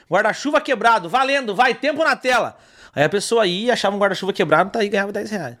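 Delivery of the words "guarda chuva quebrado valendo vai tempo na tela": lightly acted game show host, higher pitch; a hint of TV host urgency. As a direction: re-enact calling out the item to start a round. Reenacts hosting his game segment.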